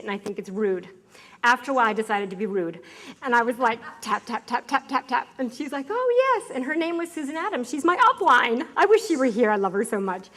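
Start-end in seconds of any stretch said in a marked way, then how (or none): 5.9-6.5 surprised oh. Retold or imitated. Upline turns round, surprised.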